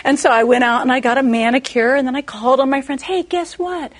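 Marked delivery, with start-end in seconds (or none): 3.0-3.9 breezy excited invite. Retold or imitated. Bubbly invite to friends.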